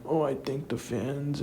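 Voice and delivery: high, slow imitation of weeping; put-on weepy gratitude; mock tearful. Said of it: "like, shedding tears".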